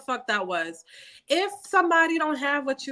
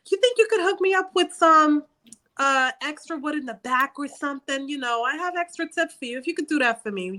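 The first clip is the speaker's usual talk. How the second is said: lightly acted higher-pitched sweet-talk; friendly hustler; 6 semitones higher than usual. Regular customer angling for extra from store worker, higher coaxing voice.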